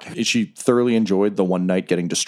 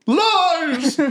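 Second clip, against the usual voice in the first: much higher, slow theatrical proclamation; grand villain boast. Acted. Giant armored fighter announcing himself to the arena, slow and booming. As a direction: declare yourself like a tragic champion.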